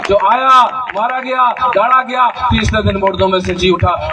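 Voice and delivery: rally the congregation to praise, building in force; full-force preaching. Real, not acted. (पूरे जोश में ऊँची आवाज़ का उपदेश)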